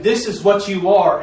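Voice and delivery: retold loud cry. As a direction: proclaim it slowly, like a mother calling out. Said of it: "did a loud cry and saying".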